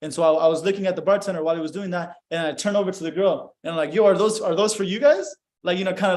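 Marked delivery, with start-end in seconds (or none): 3.9-5.3 playful question to strangers; joking. Retold or imitated. Turning to a girl at the bar about shots, joking. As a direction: ask it as a light joke. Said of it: "like, being joking".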